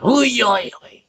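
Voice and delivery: high, loud "oy" wail; mimicked outcry. Mimicking the reaction to women not voting, high mock outcry. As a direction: imitate a noisy outcry.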